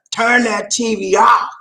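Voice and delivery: slow, commanding soul-singer impression. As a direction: stretch the order out like a soul star. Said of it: "Like Teddy used to say".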